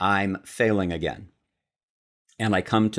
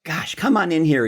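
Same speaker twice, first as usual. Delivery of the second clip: high, hearty call of the name, much higher; father's voice; 9 semitones higher, 4 dB louder than usual. Retold or imitated. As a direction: call him in like a booming dad. Dad voiced, calling son in.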